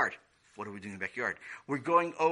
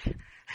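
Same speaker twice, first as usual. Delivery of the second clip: laughing. Real, not acted. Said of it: "Why are you laughing so hard".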